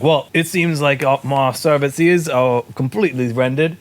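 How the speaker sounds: courteous trader in loose mock Scottish; vendor's accent. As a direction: sign off in a wobbly Scottish accent. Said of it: "He looks back and is like".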